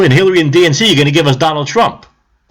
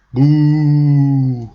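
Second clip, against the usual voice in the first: mock boo. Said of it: "they boo her".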